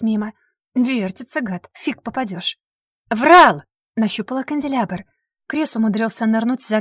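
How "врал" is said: hurled accusation, loud and sharp; one-word furious yell. Acted. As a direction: scream it as you throw. Throwing things, yelling accusation.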